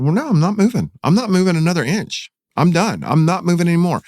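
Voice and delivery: mild angry refusal to take another step; stubborn refusal. Retold or imitated. Refusing to walk further, angry.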